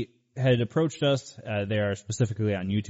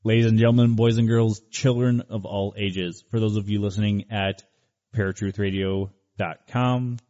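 announcer voice. Acted. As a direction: bellow it like a boxing announcer. Boxing-style show opener.

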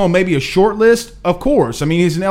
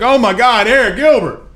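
higher-pitched mock gushing over a player; mock fan hype; 6 semitones higher than usual. Host mimicking fans gushing over Eric Gilbert, mock hype. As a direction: imitate everybody losing it, pitched up. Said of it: "and everybody's like".

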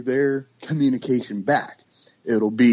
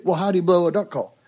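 quick, raised questioning voice; curious questioner; 4 semitones higher, faster than usual. Retold or imitated. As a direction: fire off the questions eagerly. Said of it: "people always say".

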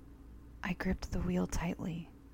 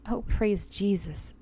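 put-on relieved old man; 3 semitones higher, 3 dB louder, slower than usual. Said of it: "an elderly man said".

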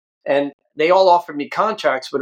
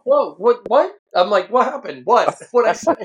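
confused alarm; 7 semitones higher than usual. Retold or imitated. His own panicked confusion, retold.

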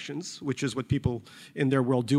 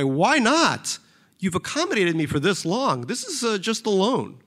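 lightly voiced wheedling rich man; a touch of sheepish pleading; hint of Barry; 6 semitones higher than usual. Barry asking Jeff for a loan, lightly voiced.

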